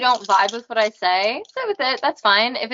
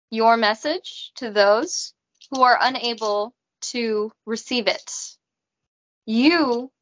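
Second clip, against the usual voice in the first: Raina robot voice. Acted. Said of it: "I talk in a robot voice".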